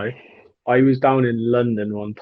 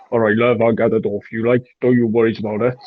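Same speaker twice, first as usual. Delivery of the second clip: put-on Welsh accent; 4 dB louder, faster than usual. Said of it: "deepest Welsh accent ever".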